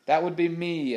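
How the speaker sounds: big man's booming callback; thundering reply. A narrator's reading. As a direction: thunder it back across the water. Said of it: "a deep voice thundered back".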